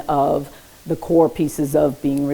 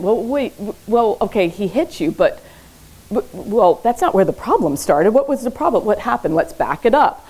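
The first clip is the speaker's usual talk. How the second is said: higher-pitched, halting mock interruption; lightly acted therapist; 4 semitones higher than usual. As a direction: play a counsellor backing the story up. Acts out therapist interrupting a child's story.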